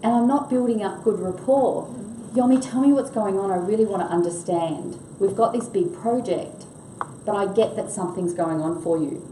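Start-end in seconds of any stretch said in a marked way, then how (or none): 2.3-9.2 understanding ask. Shown as a demonstration. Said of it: "I wait, listen".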